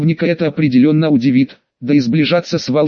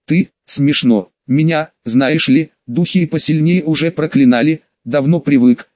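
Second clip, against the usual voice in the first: indifferent. Acted. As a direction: shrug it off, unimpressed. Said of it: "безразлично отозвался маг".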